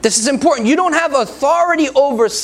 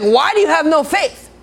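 raised, pointed challenge to the disciples; stern rebuke; 5 semitones higher than usual. Pretend. Jesus rebukes his fearful disciples, sternly. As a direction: rebuke them sharply, no coddling. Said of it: "He's like".

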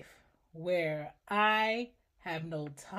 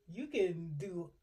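voice of God; 2 semitones higher, 3 dB louder, faster than usual. Retold or imitated. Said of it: "God is like".

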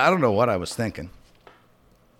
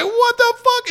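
much higher mock shriek of shock; imitating the wife's horrified yell, pitched way up; retold scream; 5 dB louder, slower than usual. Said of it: "she just fucking screams".

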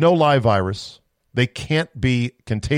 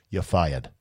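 Trump catchphrase; 8 semitones lower, 6 dB quieter than usual. Retold or imitated. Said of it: "and then say".

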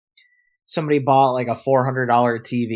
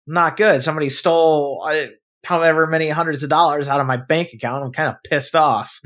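louder, higher fed-up rant; annoyed complaint; 5 semitones higher, 5 dB louder than usual. Retold or imitated. Complaining to the bank lady, louder fed-up rant. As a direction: rattle off the grievance.

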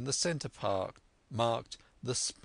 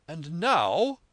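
eager squire; 6 semitones higher, 7 dB louder than usual. A narrator's reading. Squire eager to open map.

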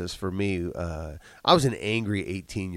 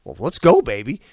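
excited; 3 semitones higher, 9 dB louder than usual. Retold or imitated. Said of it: "I'm like".

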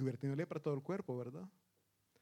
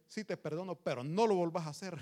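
grudging warning; 7 dB louder than usual. Retold or imitated. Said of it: "el tono con el que se habla".

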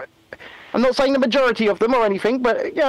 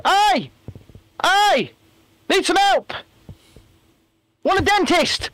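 put-on Albanian accent; 11 semitones higher, slower than usual. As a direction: call for help from the water in a mock Albanian accent. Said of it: "In an Albanian accent".

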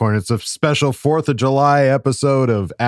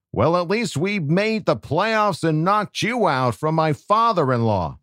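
Peter Griffin voice. Acted. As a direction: read the letter as a goofy cartoon dad. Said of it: "J Rob asked for me to do a Peter Griffin voice".

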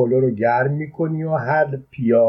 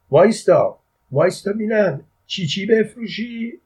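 high-pitched anxious call, climbing higher; worried shout; 9 semitones higher than usual. A narrator's reading. Father calling after his departing son, anxious high shout. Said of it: "با دلواپسی داد زد".

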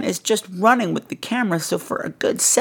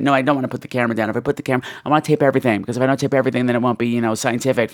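lightly voiced brother; 7 semitones lower, much faster than usual. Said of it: "talk about the camera".

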